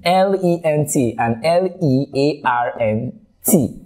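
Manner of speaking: slow spelling. Shown as a demonstration. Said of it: "not the same pronunciation".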